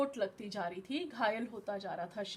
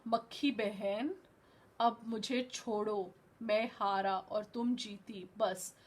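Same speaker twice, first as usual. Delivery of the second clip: weary defeat. Acted. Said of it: "परेशान हो गया".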